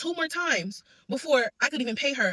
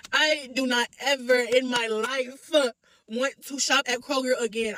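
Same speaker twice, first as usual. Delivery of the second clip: crying; slower than usual. Real, not acted. Tearful vow never to return.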